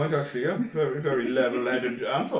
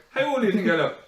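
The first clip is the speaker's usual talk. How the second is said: put-on girls' question; 7 semitones higher, 5 dB louder, faster than usual.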